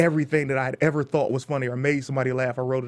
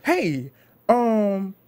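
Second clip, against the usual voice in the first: nervous joke opener; 5 semitones higher than usual. Retold or imitated. Comic asking the fellas in the crowd, higher stage voice.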